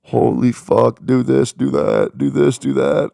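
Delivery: loud, hammed-up panicked yell; overwhelmed outburst. Streamer yelling at his pile of tasks, mock-panicked shout. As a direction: blow up at the endless to-do list. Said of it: "My anxiety's through the roof".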